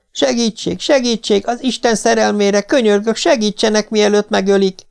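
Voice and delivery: sustained high, desperate plea; begging for help. A narrator's reading. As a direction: beg passers-by to save a life. Victim begs for help in story.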